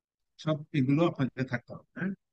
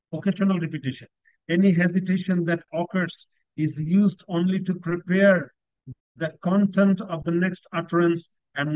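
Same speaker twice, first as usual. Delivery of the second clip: reads each English phrase slowly and deliberately; teacher dictating slowly; slow descriptor reading; much slower than usual. Shown as a demonstration. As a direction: spell out the criteria word by word for students. Reads band descriptors aloud.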